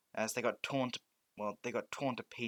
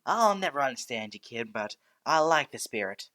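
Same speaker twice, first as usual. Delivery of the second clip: President Mike; 2 semitones higher, 10 dB louder than usual. Acted. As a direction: burst in like a boisterous radio host. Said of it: "He's like".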